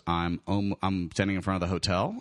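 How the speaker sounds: low, hesitant, mildly confused; Matt. Retold or imitated. Friend on the phone explaining himself, low puzzled voice. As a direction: imitate a puzzled sober reply.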